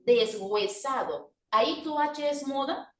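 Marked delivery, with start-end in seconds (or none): 0.1-1.3 deshuesado slowly as des-güe-sado; sounded H. Shown as a demonstration. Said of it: "ahora pronuncia aquí".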